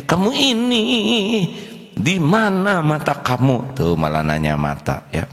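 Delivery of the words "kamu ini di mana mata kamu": hammed-up teacher losing his temper; mock angry scolding. Angry teacher scolding a pupil, hammed-up high rant. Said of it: "cirinya marah itu nggak jelas".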